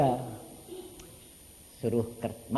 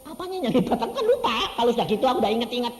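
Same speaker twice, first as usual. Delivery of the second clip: high, loud laughing question; 9 semitones higher, 8 dB louder, faster than usual. Real, not acted. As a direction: laugh through the words. Tertawa saat bercerita. (sambil tertawa, tinggi dan keras)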